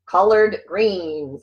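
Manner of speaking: very slow, drawn-out announcement; slow showy reveal; grand reveal. Acted. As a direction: unveil it like a prize. Big reveal of the topic.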